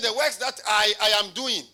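"I" hit loudly, then repeated; loud preacher's emphasis on "I"; stress on I. Shown as a demonstration. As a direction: punch the word "I" with force. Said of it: "I'm emphasizing on who".

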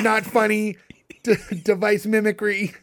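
lightly voiced robotic alien baby; Bobit's alien voice. Host imitating the alien's reply to the nanny, lightly robotic alien voice. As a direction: put on a slight alien-baby voice. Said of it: "I love you doing the voice".

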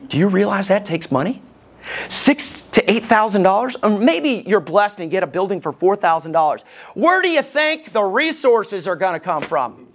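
dry sarcasm in the questions; mock the plan with a sarcastic edge. Real, not acted. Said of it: "Do you sense sarcasm in my voice?".

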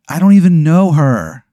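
high, loud defensive protest; driver to his crow. Acted. The driver protesting to his staring crow, high and loud. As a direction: snap back at the crow. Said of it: "he's like".

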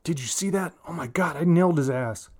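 high, gleeful outburst; excited blurt. Acted. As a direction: crow about the kill. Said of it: "then Bobby blurts out".

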